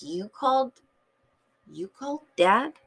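acted-out sibling disbelief, rising at the end; mock incredulous. Brother questioning sister about Dad, mock incredulous. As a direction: play a put-out brother checking what he heard.

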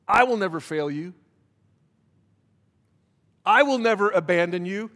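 preacher lifting a scripture promise; building proclamation. Acted. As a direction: proclaim the promise with swelling force. Quoting God's promise, building.

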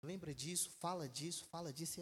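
the Spirit quietly prompting the writers; soft inner prompting. Pretend. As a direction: murmur it like a voice inside. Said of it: "Pra poder falar assim".

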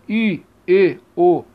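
I, E, O with closed E and O; closed vowels. Shown as a demonstration. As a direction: sound out closed I, E, O one by one.

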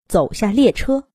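usual speaking voice

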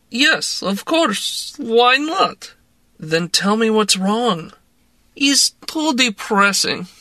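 tipsy Russian woman urging a drink; Russian accent. A narrator's reading. Woman pressing vodka on narrator, in a Russian accent. Larissa voice.

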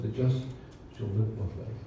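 live given the weight, falling off softly; stress on live. Shown as a demonstration. Preacher reading the verse, stressing live. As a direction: lean on live and let the rest fade. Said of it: "the emphasis on live".

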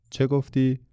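high-pitched call for a repeat; puzzled query. A narrator's reading. Factory boss who missed the boy's question, high puzzled query. Cannot hear over factory noise.

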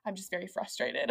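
subdued, understated apology; calmed-down apology. Retold or imitated. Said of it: "And he calms down".

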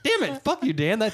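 loud, high mock-angry yell; frustrated yell. Real, not acted. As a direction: shout at Dan in jest. Loses the round.

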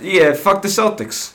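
slow, brash Philly fan jeer; Philly accent. Pretend. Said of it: "my Philly accent time".

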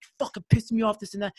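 high-pitched imitation of a sore loser; mock angry complaint. Beaten opponent blaming the winner, mock angry. Acted quarrel after overtime loss.

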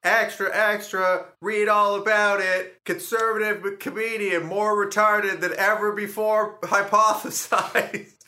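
high, loud paperboy cry; newsboy. Acted. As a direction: hawk the headline like an old-time newsboy, drawn out. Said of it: "just a boy in a newsy cap".

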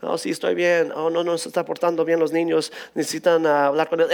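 casual Spanish phone chat, acted out; lightly imitated Spanish-language family call; Spanish mode. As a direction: slip into everyday Spanish as if chatting with mom. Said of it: "I immediately go into Spanish mode".

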